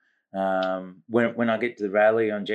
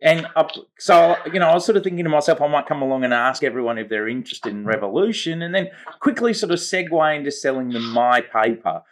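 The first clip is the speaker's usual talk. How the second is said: eager naive commie persona; 3 semitones higher than usual. Pretend. Host plays eager commie paper seller.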